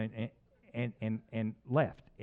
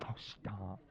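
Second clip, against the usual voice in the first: wife's reply; 5 semitones lower, 11 dB quieter than usual. Retold or imitated. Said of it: "She's like".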